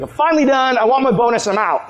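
high-pitched opening, dropping at the end; mock exasperated announcement; acted fed-up outburst. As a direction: play a worker quitting in a huff. Fed-up worker throws key at boss.

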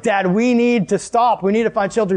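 urgent pleading. Retold or imitated. Kids to dad as storm worsens, urgent pleading. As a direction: imitate insistent kids, each word weighted.

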